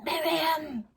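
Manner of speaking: high, hissed call of a name; high-pitched, insistent hiss; urgent hiss. A narrator's reading. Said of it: "hissed Magda".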